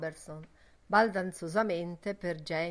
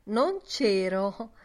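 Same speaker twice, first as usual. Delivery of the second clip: smiling; 3 semitones higher, 7 dB louder, much slower than usual. A narrator's reading. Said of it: "disse mister Dedalus sorridendo".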